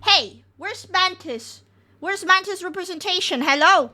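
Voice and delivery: mock indignant. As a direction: complain playfully about being left out. Mock complaint.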